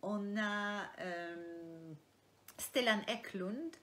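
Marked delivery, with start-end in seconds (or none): 2.6-3.8 "Stellan Eklund" said slowly and deliberately; careful, slow showing of "Stellan Eklund"; name pronunciation demo. Shown as a demonstration. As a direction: sound out Stellan Eklund slowly, each syllable clear. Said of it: "comment se prononcent les noms de tes personnages".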